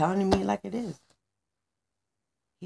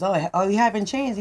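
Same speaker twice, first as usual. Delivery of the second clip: louder, mildly exploding; angry outburst; 2 semitones higher, 5 dB louder than usual. Acted. Manny the manager can't take it anymore, angry outburst. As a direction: blurt it out heatedly. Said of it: "so he explodes".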